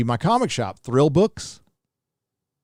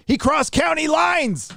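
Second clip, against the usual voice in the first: dramatic slow emphasis; slower than usual. Acted. Dramatic reread of donor message.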